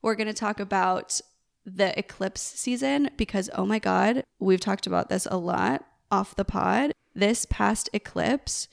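usual speaking voice

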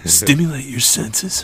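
drawn-out commercial read; slow ad voice. Shown as a demonstration. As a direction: sell it slowly. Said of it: "Hold on, let me see".

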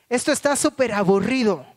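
put-on loud, high whiny complaint of a bored four-year-old; a small daughter complaining loudly in a cave; bored little girl. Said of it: "interrumpe una voz que dice".

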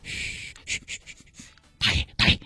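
urgent hushed whisper. Acted. Girl hushing the grumpy old man, urgent whisper. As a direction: hush him so nobody hears.

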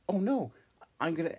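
high, loud "oh no" panic; panicked. Acted. Hop sees the drop coming, high loud panic. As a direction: cry out in high alarm.

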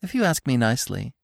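happy. Acted. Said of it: "Feline said happily".

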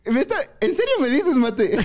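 very high, amused incredulity; high-pitched mock astonishment; imitated laughing disbelief. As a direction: mimic a boss cracking up in disbelief. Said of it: "Y ella se caga de risa".

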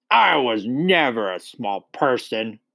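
mildly snappish denial; snapping. A narrator's reading. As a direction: snap back, lightly indignant. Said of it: "she snapped".

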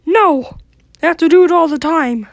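high squeaky cartoon mouse; chirpy whining mouse voice; Mickey Mouse voice.

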